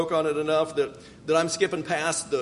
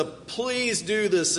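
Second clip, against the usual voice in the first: earnest plea; 4 semitones higher, much slower than usual. Shown as a demonstration. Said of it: "an earnest".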